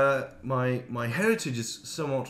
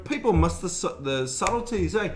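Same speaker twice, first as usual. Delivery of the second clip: Maori accent; 2 semitones higher than usual. Shown as a demonstration. New Zealander demonstrating how every sound gets exaggerated, Maori accent. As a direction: lay the Maori accent on thick. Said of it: "then you've got your Maori accent".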